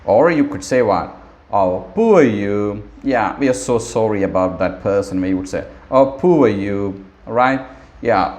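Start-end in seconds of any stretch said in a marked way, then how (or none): 1.5-5.2 sympathetic. Shown as a demonstration. Teacher demos sympathy. 5.9-7.0 sympathetic. Shown as a demonstration. Teacher demos sympathy.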